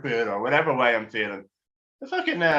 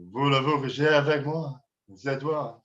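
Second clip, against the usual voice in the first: put-on lightly done French accent; a hint of a sleazy Frenchman; understated French come-on; French seducer. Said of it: "dirty French man there".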